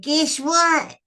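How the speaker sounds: mother teasing a surprise, voice lifted; teasing guess what. Retold or imitated. Mother teasing her eleven-year-old with big news. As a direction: dangle the news playfully.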